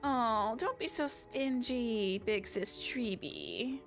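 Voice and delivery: slow, coaxing plea; wheedling. Acted. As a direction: sweet-talk her slowly. Wheedling for free food.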